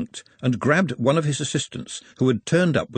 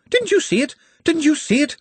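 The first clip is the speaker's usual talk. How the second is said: much higher, frantic repetition; frantic disbelief. Acted. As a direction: near madness, can't believe he missed it. Editor frantic near madness.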